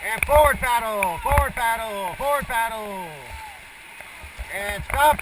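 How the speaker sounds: loud, high calls over the river noise; shouting over rushing water. Real, not acted. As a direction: bark the paddle commands over the rapids. Guide shouting paddle commands in rapids.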